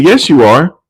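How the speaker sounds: high, insisting sister; lightly voiced insisting woman; mock insistence. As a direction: pin him down, teasing. Daughter insisting.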